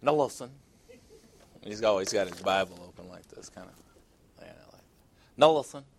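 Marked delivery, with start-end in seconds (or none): 0.0-0.5 southern preacher. Retold or imitated. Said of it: "He's got that little southern accent". 5.4-5.8 a louder, higher southern "Now listen"; hammed-up southern pulpit call; southern preacher imitation. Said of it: "He's got that little southern accent".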